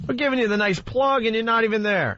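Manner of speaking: high mocking voice. Teasing absent guest on phone.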